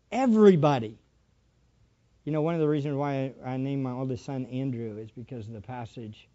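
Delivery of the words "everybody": emphatic. Shown as a demonstration. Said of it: "who do you want to tell".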